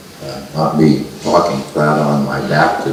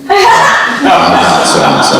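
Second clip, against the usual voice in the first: mock exasperated retort; 5 dB louder, much slower than usual. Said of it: "I'm just about ready to say".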